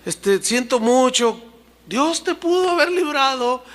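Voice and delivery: a hint of a mourning king calling down into the pit; grieving king. King mourns Daniel at the lions' den, mild lament. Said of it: "la idea es esta, así como".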